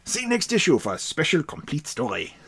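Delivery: put-on light German accent; Stein's accent. Podcaster reading the next-issue box in a light German accent. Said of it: "written out in Stein's accent".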